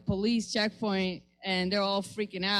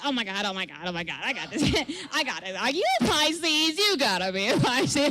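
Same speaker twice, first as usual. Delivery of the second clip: mock ditzy Valley girl chatter, lightly voiced; pretend Valley girl. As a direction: play dumb and bubbly with the cop, a hint of Valley girl. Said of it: "pretended to be this white American Valley girl".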